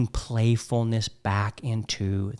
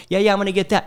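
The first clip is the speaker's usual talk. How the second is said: higher-pitched breezy mock assurance; empty promise; 6 semitones higher, faster than usual. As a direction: toss off a promise, imitating someone. Mimics men making empty promises.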